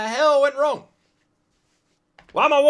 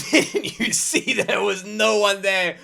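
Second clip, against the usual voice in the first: imitating driver; slower than usual. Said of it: "repeats the driver's line".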